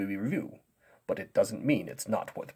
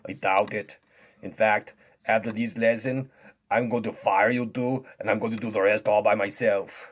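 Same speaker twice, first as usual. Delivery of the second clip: dismissive strongman voice; boastful strongman; 5 dB louder, faster than usual. Pretend. Strongman threatens to fire the teachers, cocky and dismissive. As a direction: brag with scornful confidence.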